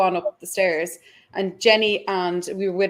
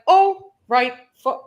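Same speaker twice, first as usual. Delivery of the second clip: startled curse; 6 semitones higher, 6 dB louder, slower than usual. Retold or imitated. Sees black mass, panics.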